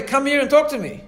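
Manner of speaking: high, loud, inviting call across the carriage; friendly call. A narrator's reading. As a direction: coax him over kindly. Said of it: "to the drunk in a friendly way".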